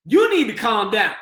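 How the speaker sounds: sarcastic parroting of the staff order; mocking echo of staff. Shown as a demonstration. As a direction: throw the staff's words back at them. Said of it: "the individual in crisis now".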